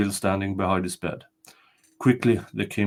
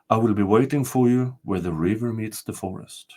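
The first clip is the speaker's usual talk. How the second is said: castle spirit. Acted. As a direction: announce yourself as the ancient spirit.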